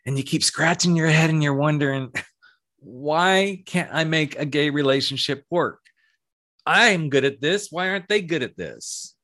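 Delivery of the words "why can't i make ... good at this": puzzled complaint. Acted. Voicing listener's puzzled complaint.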